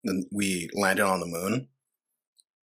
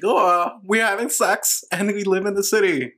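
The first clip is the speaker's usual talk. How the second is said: higher-pitched mock white-woman voice; mocking white women; 7 semitones higher than usual. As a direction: put on an airy, mocking impression of TV women. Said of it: "these fucking white women like".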